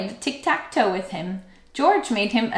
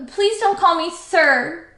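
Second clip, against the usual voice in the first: high-pitched protest; crying out; 8 semitones higher, 5 dB louder, slower than usual. A narrator's reading. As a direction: plead earnestly in a small high voice. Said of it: "cried Stuart".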